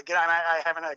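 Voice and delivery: a touch of mockery for the clumsy wrong greeting; lightly mocked wrong version of the greeting; mocking wrong phrase. Shown as a demonstration. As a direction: say it like the fool who gets it wrong, mildly. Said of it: "You, you just sound stupid".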